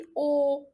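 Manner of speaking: "O" held level as the mistaken sound; wrong E, as O. Shown as a demonstration. Teacher warning learners off a wrong E, level drawn-out "O". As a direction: hold "O" on one note as what not to say. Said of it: "ماشي".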